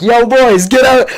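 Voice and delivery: high, loud call to his friends; yelled call. Retold or imitated. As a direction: shout the signal to the boys hiding in the cars. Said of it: "I yelled".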